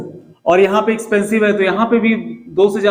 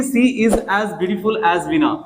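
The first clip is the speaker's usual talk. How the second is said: "She is as beautiful as Veena" read very slowly; slow dictation; much slower than usual. Shown as a demonstration. Teacher pointing students to the board sentence, very slowly. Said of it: "यहाँ पे देखिए".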